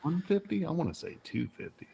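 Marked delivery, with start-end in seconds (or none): 0.0-0.6 high incredulous question; surprised. Real, not acted. Surprised at price.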